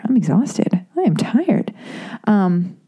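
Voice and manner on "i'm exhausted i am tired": tired whisper. Retold or imitated. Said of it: "I was like".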